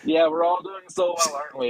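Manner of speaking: sarcastic. Real, not acted. Sarcastic reply to "rescued economy.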